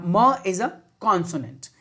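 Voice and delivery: slow, drawn-out म sound. Shown as a demonstration. Teacher to students, sounding out म slowly. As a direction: stretch the म so they hear the consonant. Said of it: "मैंगो में म बोल रहा हूं".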